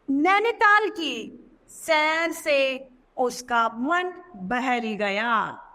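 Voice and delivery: put-on slow, deliberate read for children. Shown as a demonstration. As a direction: let each word land slowly. Teacher reads example sentence.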